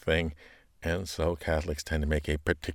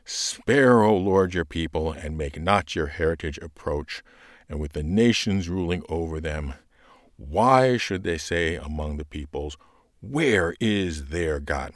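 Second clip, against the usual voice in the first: pleading proclamation. Shown as a demonstration. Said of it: "there's something left when you get to the point".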